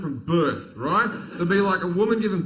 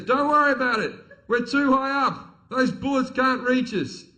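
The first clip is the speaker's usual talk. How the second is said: calm gunner; 8 semitones higher, 4 dB louder than usual. Retold or imitated. Gunner reassures the panicking comic, lightly voiced calm soldier.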